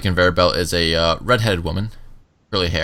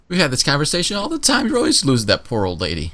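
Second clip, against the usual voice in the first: raised, nagging guard voice; scolding guard; 7 semitones higher, 3 dB louder than usual. Acted. Guard nagging Johnson about the lost old lady, raised. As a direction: nag him about always losing her.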